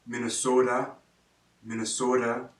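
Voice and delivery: slight Minnesota accent on "Minnesota"; Minnesota regional accent. Shown as a demonstration. Teacher showing a small regional Minnesota accent. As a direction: Minnesota accent, long pure O in "Minnesota". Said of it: "There's a small regional accent".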